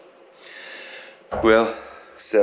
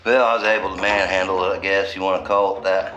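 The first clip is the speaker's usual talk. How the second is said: out of breath. Real, not acted. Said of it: "I'm out of breath, guys".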